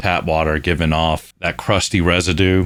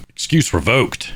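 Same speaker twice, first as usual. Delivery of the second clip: mock verdict; 5 semitones higher than usual.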